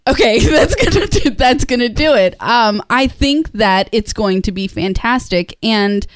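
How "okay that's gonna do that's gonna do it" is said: higher, laughing mock relief; retold won-over friends. Friends hearing who is cast, retold giddy approval. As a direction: give in gleefully, as imitated friends. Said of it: "they're like".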